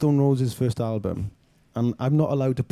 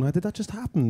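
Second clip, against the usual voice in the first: retold disbelief; 7 semitones higher than usual. Stunned moment recalled on the curb.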